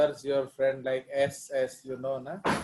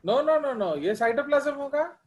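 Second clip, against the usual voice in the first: emphatic correction; 10 semitones higher than usual. Real, not acted. Teacher correcting a wrong idea.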